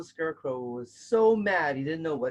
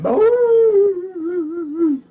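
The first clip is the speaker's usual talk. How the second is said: playful boo; 9 dB louder than usual. Pretend. Playful scare in story break.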